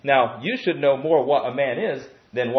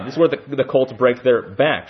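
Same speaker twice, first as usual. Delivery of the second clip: mock Indian accent on "cults", a bit louder; 4 dB louder than usual. Shown as a demonstration. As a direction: redo the line with a playful Indian accent. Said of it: "I can use my Indian accent there".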